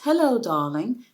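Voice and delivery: light mock British accent; a hint of posh British charm; lightly imitated British accent. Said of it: "with his British accent".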